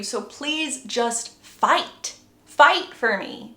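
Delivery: slow, emphatic begging; acted plea, swelling on the repeat; urgent plea. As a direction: beg slowly, leaning on each word. Acts Bella's urgent plea.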